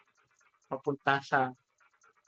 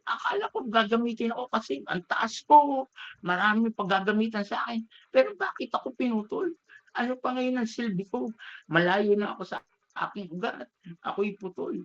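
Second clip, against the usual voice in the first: raised-pitch indignant complaint, mildly hammed; a touch of bitter anger, pitched up; angry bamboo; 4 semitones higher than usual. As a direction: protest being cut down, higher and hurt. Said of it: "Galit, galit yung bamboo".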